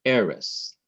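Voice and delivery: Eres with the stress on E, falling away on res; stress on first syllable. Shown as a demonstration. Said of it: "The accent is placed on the syllable before the last".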